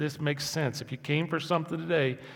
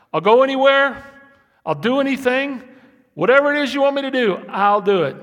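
much higher, loud and fast pledge; eager shout; 11 semitones higher, 15 dB louder than usual. Retold or imitated. Pastor voicing a willing servant, high and loud. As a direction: burst out ready for anything.

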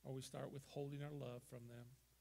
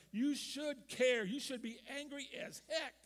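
emphatic preaching shout; 9 semitones higher, 11 dB louder than usual. Real, not acted. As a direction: hammer it home to the church.

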